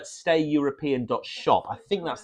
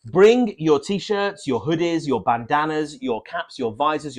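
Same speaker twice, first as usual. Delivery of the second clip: excited. Acted. Hyped merch plug, slow.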